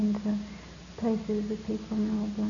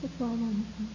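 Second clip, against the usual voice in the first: quiet knowing reply; 2 semitones lower, 9 dB quieter than usual. Retold or imitated. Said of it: "he looked at me and he said".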